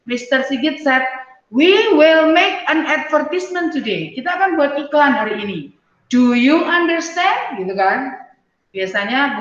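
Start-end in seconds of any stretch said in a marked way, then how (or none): 1.5-4.1 teacher voice. Shown as a demonstration. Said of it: "jadi kalimatnya begini". 6.1-7.6 teacher voice. Shown as a demonstration. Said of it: "jadi kalimatnya begini".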